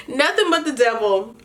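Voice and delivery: laughing as she says it again; laughing repeat. Real, not acted. Recapping the show, she laughs repeating herself. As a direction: giggle through the repeat of her own line. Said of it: "repeats own line laughing".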